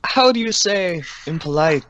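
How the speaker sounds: character voice. Acted. Player challenging the pirate captain, put-on questioning voice. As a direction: feign a search for the polite word. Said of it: "just playing the character then".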